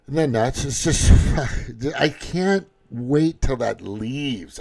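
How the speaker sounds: cracking up at the video, then slowing down; laughing exasperation. Real, not acted. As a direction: laugh at it in scornful disbelief.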